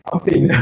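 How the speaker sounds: "fine" said as "feen" in "I'm fine"; mispronounced "fine". Shown as a demonstration. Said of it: "la prononciation est très".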